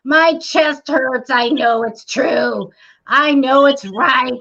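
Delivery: slow, stretched-out mock insistence; imitating insistent clients. Clients tell the psychic what their chest feels, mock insistence. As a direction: draw out each claim like a convinced client. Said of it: "I had people come over and say".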